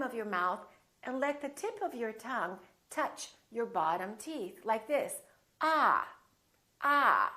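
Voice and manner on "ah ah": "Ah" open, long and emphatic; a higher, drawn-out "Ah"; ah sound demo. Shown as a demonstration. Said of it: "To create the ah sound".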